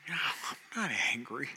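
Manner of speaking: mock whisper. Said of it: "I'm like".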